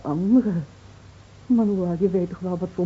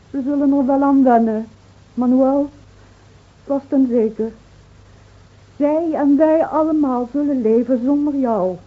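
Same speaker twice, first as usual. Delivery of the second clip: raised defiant voice; 5 semitones higher, 4 dB louder than usual. Acted. Bitter-trots tegen dode Manuel.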